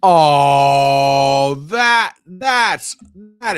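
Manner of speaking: loud, high shocked outcry; appalled. Real, not acted. Streamer appalled by a viewer's comment, loud outcry. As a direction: recoil at what he just read.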